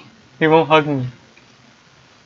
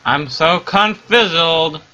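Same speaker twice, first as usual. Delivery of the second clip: slow, louder goofy cry; 3 semitones higher, 4 dB louder, much slower than usual. Acted. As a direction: drag it out, louder. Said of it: "you gotta be louder".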